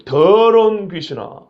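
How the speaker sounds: slow, stern 더러운 귀신아; firm curse. Retold or imitated. The preacher curses the unclean spirit, slow and stern. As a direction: drag each syllable of 더러운 귀신아 sternly. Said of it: "하고 저주를 합니다".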